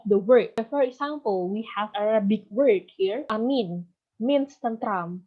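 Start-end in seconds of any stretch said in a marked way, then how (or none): 3.3-3.9 amin with both vowels kept short. Shown as a demonstration. Lecturer contrasting Arabic word meanings, amin with short vowels. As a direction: say amin quickly, neither vowel held. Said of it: "the length of the sound can change the meaning".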